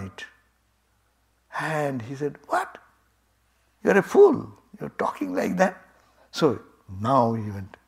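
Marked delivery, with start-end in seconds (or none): 2.5-5.8 much higher, scornful outburst; indignant scoff. Acted. Fire god scoffs at the stranger's straw test, indignant. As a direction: scoff at the insult, offended.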